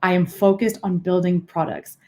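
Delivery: "focused" weighted and set apart; deliberate emphasis with pauses. Shown as a demonstration. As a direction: take time over "I am focused on building products". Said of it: "add in those awkward pauses".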